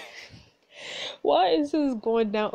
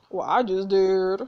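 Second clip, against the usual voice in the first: slow, defiant retort; 5 dB louder, slower than usual. Real, not acted. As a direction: throw it back defiantly. Defiant answer to villain.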